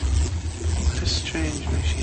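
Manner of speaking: slow hushed whisper of wonder; awed whisper. Acted. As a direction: whisper slowly, marvelling. Scholar awed by the lamp.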